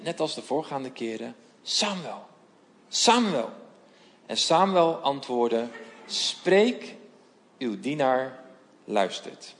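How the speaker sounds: measured storytelling read of the Bible passage, voices lightly acted; scripture reading. Voorlezen van het bijbelverhaal. (bijbelverhaal voorlezen met lichte stemmetjes)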